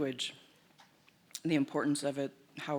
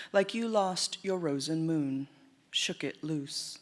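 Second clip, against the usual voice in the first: poetry reading; 3 semitones higher than usual. Acted. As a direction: recite it deliberately, lingering on the stressed words. Begins reading a second poem.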